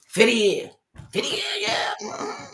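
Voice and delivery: high, breathy awe at fifty years; mock awed onlookers. Friends marvel at their fifty-year marriage, mock awe. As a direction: gush like an impressed friend, lightly hammed. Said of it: "People used to always say this".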